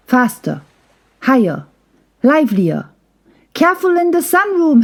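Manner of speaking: rising to a high, quick warning call. Acted. Hazel warning the playing kids in the sunroom, a high quick call. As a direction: call the warning across the room. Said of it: "Hazel called".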